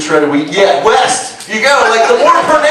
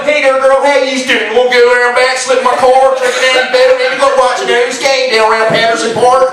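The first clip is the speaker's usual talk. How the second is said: mock Baltimore accent; 2 semitones higher than usual. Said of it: "a Baltimore accent".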